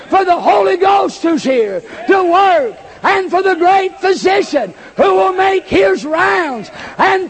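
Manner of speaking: rising, ringing preacher's call; preaching at full force. Acted. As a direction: lift the congregation toward victory. Preaching climax continues.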